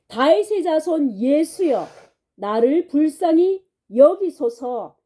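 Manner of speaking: retold cry out. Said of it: "큰 소리로 그렇게 외쳤다".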